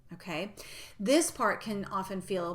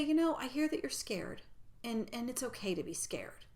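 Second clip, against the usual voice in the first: gentle self-talk to a scared inner part; reassuring; 3 semitones higher than usual. Shown as a demonstration. Coach shows how to reassure a scared inner part, gently. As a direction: soothe a frightened part of yourself. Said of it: "So just reassuring that part of me".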